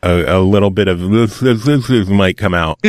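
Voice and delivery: speaking through a swollen cheek; words slurred by tooth swelling; swollen face. Real, not acted. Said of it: "half of my face is swollen".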